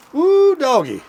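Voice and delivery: high, loud whoop of delight; excited whoop. Real, not acted. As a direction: whoop it up over the food. Excited over the broccoli.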